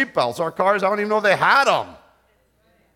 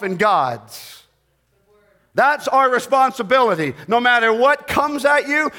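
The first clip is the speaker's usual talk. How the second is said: emphatic preaching; 3 semitones higher than usual. Real, not acted. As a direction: press the charge home to the congregation. Preaches a charge to congregation.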